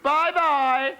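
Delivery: high, breezy, careless tone; airy princess. Acted. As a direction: wave him off lightly. Princess mocking frog.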